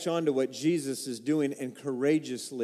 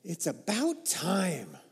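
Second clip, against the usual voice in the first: sarcastic aside; 5 dB quieter, slower than usual. Pretend. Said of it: "Does Jesus say something like".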